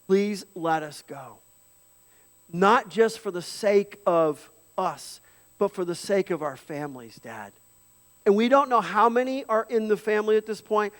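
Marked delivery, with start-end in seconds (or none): 0.0-7.5 pleading. Retold or imitated. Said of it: "he's pleading with him".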